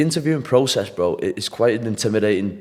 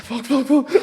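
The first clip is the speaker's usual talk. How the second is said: much higher excited swearing; buzzing with energy; 13 semitones higher, much slower than usual. Retold or imitated. Player just told he's on Love Island, higher excited swearing. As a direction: burst it out, fizzing with nerves. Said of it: "I had all this energy".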